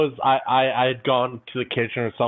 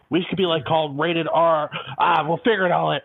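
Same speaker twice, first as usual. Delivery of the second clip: imitating Copeland; 6 semitones higher than usual. Copeland's rambling retold.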